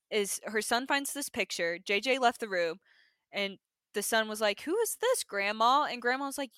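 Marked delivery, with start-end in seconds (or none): 4.6-5.8 put-on child's voice. Quoting the child asking Grandma.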